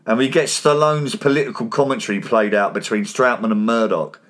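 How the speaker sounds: steady scripted voice-over read; podcast recap read; recap narration. Acted.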